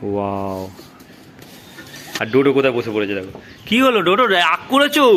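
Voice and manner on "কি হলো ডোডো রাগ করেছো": high coaxing. Real, not acted. Teasing the sulking child.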